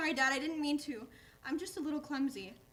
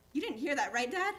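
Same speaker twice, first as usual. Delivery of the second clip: gasp, then a worried louder plea; startled gasp; 3 dB louder than usual. Acted. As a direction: caught out, gasp and backpedal. Dog realises he let slip.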